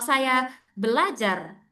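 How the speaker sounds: "Saya belajar" slowed, with weight on "Saya"; stress on saya. Shown as a demonstration. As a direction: lean on "Saya". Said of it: "Enggak kan".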